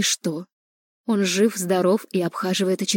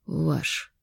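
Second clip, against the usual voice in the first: flat final verdict; 6 dB quieter than usual. A narrator's reading. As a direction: drop it like a verdict. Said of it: "припечатал ректор".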